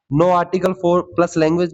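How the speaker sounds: very slow, deliberate rule; slow dictation. Shown as a demonstration. Teacher dictating a revision rule slowly to students. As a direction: dictate the rule for note-taking. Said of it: "याद कर लेना".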